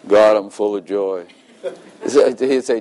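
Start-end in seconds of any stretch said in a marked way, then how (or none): 0.1-1.3 mock-dutiful, glum monotone; joyless recital. Shown as a demonstration. Praying to God while feeling miserable inside, joyless. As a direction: say it with no joy at all. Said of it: "doesn't want me to go like this".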